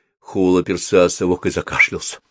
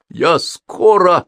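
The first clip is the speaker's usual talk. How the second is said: громко, высоко и медленно; крикни, задыхаясь, чтобы успокоить; 9 semitones higher, 6 dB louder, much slower than usual. A narrator's reading. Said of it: "задыхаясь, крикнул Холл". (крикнуть, запыхавшись)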